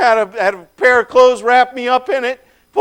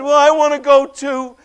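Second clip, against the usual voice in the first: eager pleading; 5 semitones higher, 3 dB louder than usual. Acted. Begging to follow him.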